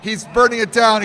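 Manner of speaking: loud hype call; excited shout. Real, not acted. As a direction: yell it as the play unfolds. Live call of a Tetris burn.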